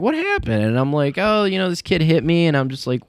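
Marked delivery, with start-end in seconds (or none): 0.0-0.6 sharp high question of alarm; older brother hearing his sibling is hurt, pitched high; concerned big brother. Retold or imitated. 1.2-2.5 imitating a crying kid. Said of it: "kinda, like, crying".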